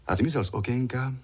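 ordinary delivery

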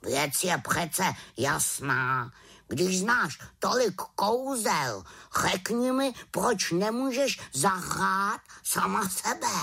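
indignant pet raven, high and slow; a huffy old bird who prefers the warm room; grumpy raven. Acted. Raven explains.

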